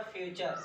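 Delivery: teacher models फ्यूचर as fyoo-char; model pronunciation. Shown as a demonstration. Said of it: "इसका देख लेते हैं".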